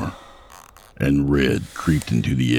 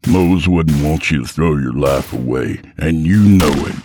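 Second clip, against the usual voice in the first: urgent plea; 4 dB louder than usual. Acted.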